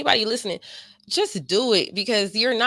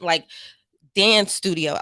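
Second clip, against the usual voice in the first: usual speaking voice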